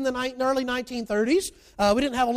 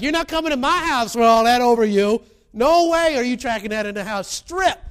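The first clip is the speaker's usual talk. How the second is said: a hint of a stern dad, louder; stern father; 7 dB louder than usual. Dad bars filthy son from house, lightly acted stern order. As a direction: lay down the law, mock firm. Father refuses boy at door.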